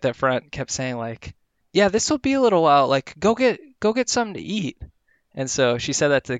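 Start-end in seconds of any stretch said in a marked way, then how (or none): 1.7-4.8 higher, fast, offhand staff voice; breezy receptionist. Retold or imitated. Receptionist telling the man to come back later, breezy and offhand. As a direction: brush him off lightly.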